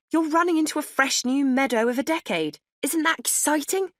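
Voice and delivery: high, bright cheering on; upbeat encouragement. A narrator's reading. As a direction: sell the new decade eagerly. Friend cheering her up.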